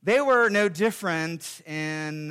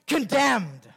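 verdict of the law. Pretend. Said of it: "The law replies".

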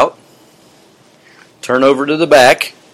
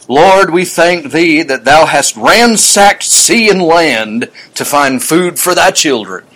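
slow prayer voice; 3 semitones higher, 3 dB louder, slower than usual. Retold or imitated. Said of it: "asking the blessing".

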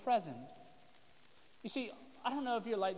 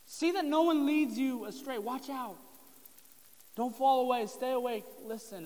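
louder, higher pressing commands; urgent warning; 5 semitones higher, 5 dB louder than usual. Retold or imitated. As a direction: urge them to stay awake. Jesus warns, preacher voicing.

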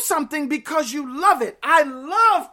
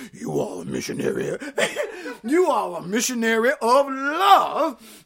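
deep soul singer voice; 2 semitones lower than usual. Pretend. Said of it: "Let me get my deep soul singer voice".

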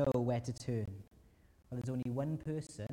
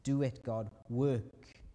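desperate plea; 3 dB louder than usual. Acted. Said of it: "lays down and says".

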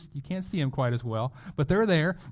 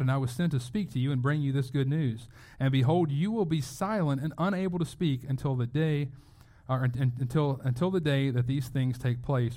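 scripture reading. Acted. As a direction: read the verses out with weight.

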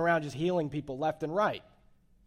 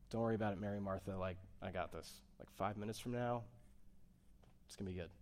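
breezy dismissal; 5 semitones lower, 12 dB quieter, faster than usual. Pretend. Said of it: "He didn't say".

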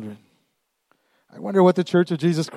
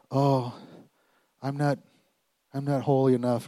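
softer, halting self-doubt; mildly discouraged; 4 dB quieter than usual. Acted. Believer about to pray, suddenly doubting, mildly deflated. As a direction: trail into doubt with a touch of defeat. Voices a discouraged would-be intercessor.

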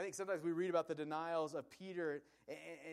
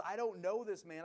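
higher, louder, heated retold denial; losing his temper; 3 semitones higher, 5 dB louder than usual. Peter denying Jesus a third time, losing his temper. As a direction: push the denial out, mildly exasperated. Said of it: "Peter at this point loses his mind".

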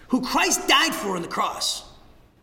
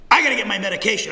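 mock anxious recruit; 5 dB louder, much faster than usual. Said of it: "imagine a boot camp".

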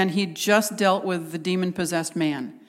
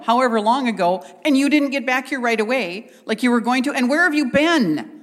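mildly hammed-up reproach, building higher; acted exasperation, rising to an accusing question; wife's scolding; 3 semitones higher than usual. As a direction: lay into him as an aggrieved wife. Wife scolding her husband, acted.

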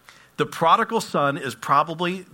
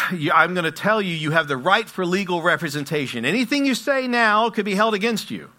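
brisk, louder official tone; perfunctory judge; 5 semitones higher, 5 dB louder than usual. Retold or imitated. Judge reading rights to the lady, louder and formal. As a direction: read the rights like a routine formality. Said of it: "in a very perfunctory manner and says".

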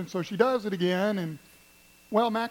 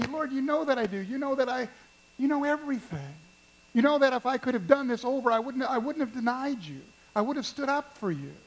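acted hurt plea, pitched higher; 5 semitones higher than usual. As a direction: protest your love as the wounded disciple, voice raised in pitch. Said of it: "Peter is hurt".

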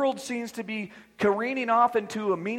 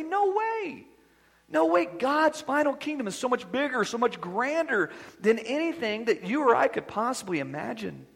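emphatic no; 3 semitones higher than usual. Acted. Preacher rebutting with emphatic no.

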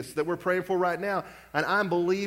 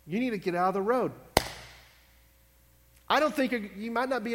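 urgent repeat; 5 semitones higher, faster than usual. Retold or imitated. Repeated warning to someone in road.

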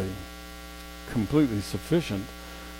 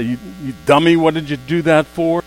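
mock scolding; 2 semitones higher, 5 dB louder than usual.

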